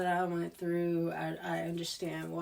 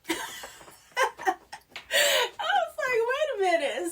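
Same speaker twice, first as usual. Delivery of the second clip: laughing; 5 dB louder, slower than usual. Real, not acted. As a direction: quote squeaked out high through laughter. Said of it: "it's hilarious to me now".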